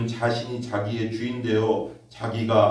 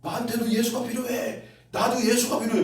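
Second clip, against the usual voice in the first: soul's plea; 11 semitones higher than usual. Retold or imitated. Preacher voicing the grandmother's soul, pleading high. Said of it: "그 영혼을 아는 거야".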